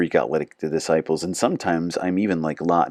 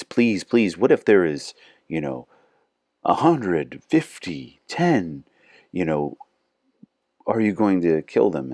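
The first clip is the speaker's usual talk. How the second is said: pleading Abraham; 3 semitones higher than usual. Retold or imitated. Abraham mildly begging God to spare the city. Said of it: "Abraham pleads".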